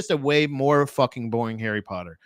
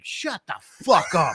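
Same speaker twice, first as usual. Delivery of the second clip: exasperated viewer. Acted. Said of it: "you're just like".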